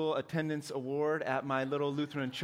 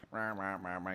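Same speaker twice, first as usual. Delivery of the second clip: muttering; 6 semitones lower, 5 dB quieter than usual. Shown as a demonstration. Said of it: "I know how to mutter".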